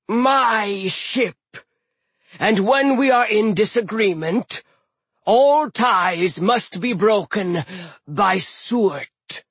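slow booming frost giant; giant captain voice. Acted. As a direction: speak like an old ice giant. Hrym voiced.

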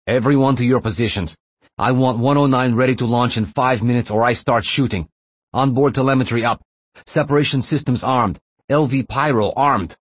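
high, loud barked commands; screaming. Acted. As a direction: scream orders at terrified hostages. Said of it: "he screamed at all the prisoners".

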